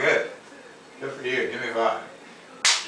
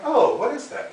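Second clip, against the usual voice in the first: mock connoisseur; 12 semitones higher than usual. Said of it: "I'm kinda like".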